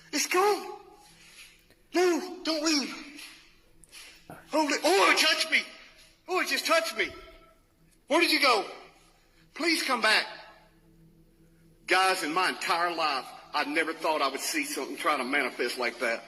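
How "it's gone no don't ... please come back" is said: very high, urgent cries after it; desperate and shaken, begging it back; frantic pleading. Real, not acted. Ghost hunter pleads with the vanished spirit, frantic.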